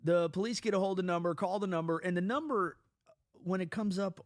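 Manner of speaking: excited storytelling. Real, not acted. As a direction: build the suspense, quick and loud. Building to story reveal.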